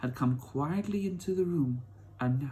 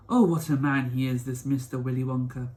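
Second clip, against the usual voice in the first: put-on eager old grandpa; 2 semitones lower, 3 dB louder than usual. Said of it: "cried Grandpa Joe".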